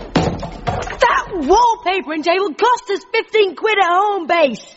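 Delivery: outraged. Acted. Outraged at the smashed table.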